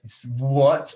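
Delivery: a sharp, disbelieving "what?"; imitating a surprised driver caught off guard; startled what. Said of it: "like that".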